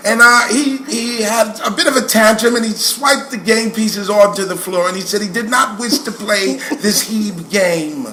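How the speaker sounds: lightly imitated New York schoolteacher; formal complaint in a New York teacher's accent. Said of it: "She had that New York accent".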